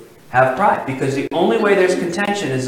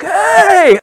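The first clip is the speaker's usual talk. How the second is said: high bright call of Hey, much louder; excited greeting; 8 dB louder than usual. Retold or imitated. Old classmate greeting him years later, excited. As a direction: greet him like a long-lost friend. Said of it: "he's like".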